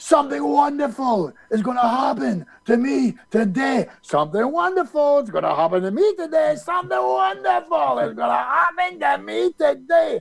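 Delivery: high scream of the same refrain, over and over. Retelling a man standing up before 150 people at breakfast, retelling a scream. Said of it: "he screamed".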